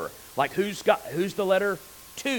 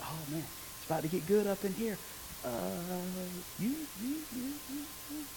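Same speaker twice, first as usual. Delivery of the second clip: giddy John; 3 semitones higher, 12 dB quieter, faster than usual. Retold or imitated. John's excited inner thoughts.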